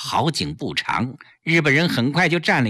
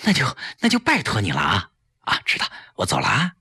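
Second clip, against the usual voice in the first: fast, eager gratitude; mildly excited thanks; 5 semitones lower, much faster than usual. Acted. 朋友答应帮忙后激动地道谢. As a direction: thank her in a rush. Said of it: "季嫣然激动极了".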